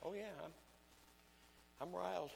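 high, soft, deadpan claim of anger; mock riled. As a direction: say you're riled with no anger at all. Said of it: "wife will say / riled".

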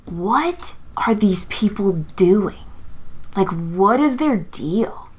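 slow, breathy wondering whisper; curious inner voice. Acted. Carlos's secret curious side, a slow whisper. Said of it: "small part of him that's like".

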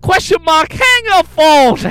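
mock broken English. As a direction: ham up the scammer's pleading. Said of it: "It's broken English, her email".

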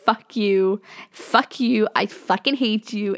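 mild mock outrage; retold anger. Pranked friend answers the taunt, retold with mock anger. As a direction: imitate a friend cursing out the pranksters.

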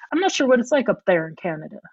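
put-on light Southern US accent, said quickly; little Southern accent. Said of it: "put on a little Southern accent".

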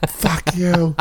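high, strained defiant voice; defiant mock shout. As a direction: sneer it at the troll. Talking back to troll.

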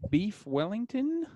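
hesitant diner with a put-on Australian accent; attempted Australian accent. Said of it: "when I do the Australian accent".

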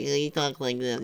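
quick mocking take on the actor's voice; Casey Affleck impression. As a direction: imitate his weird way of talking, lightly. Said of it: "he sounds weird".

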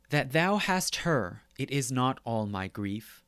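measured recitation of a sonnet; poem reading. Acted. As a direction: lecturer reciting verse. Reads the sonnet aloud.

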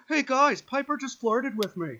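high, loud, excited gushing; hammed-up gleeful announcement, slowing on the last words; mock excited friend. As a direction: brag like a giddy kid. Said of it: "He'll literally be like".

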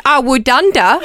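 imitating a word in an Aussie accent. Niece echoing the auntie's word back, in an Aussie accent. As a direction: say it with an Australian accent. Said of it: "in my Aussie accent".

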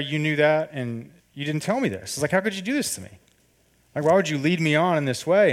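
pleading why, near breaking; hurt accusation. Retold or imitated. To his girlfriend who led him on, hurt accusing. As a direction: pitch rising high in wounded disbelief. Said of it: "I'm going ninety miles an hour".

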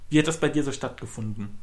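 choppy robotic connection voice. Real, not acted. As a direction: sounds like a glitching robot. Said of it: "Du redest grad wie ein Roboter".

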